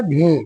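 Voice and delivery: भे, b plus a puff of breath; teacher sounding out भे; aspirated bhe. Shown as a demonstration. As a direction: say भे with a clear breathy b. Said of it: "क्या होता है?".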